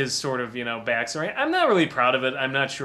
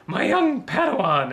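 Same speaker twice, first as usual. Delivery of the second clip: higher, louder nerdy minion; fat minion voice; 6 semitones higher, 4 dB louder than usual. Retold or imitated. Quoting the Venture Brothers minion, a higher, louder nerd voice. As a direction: put on the henchman's whiny nerd voice. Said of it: "who always talks like this".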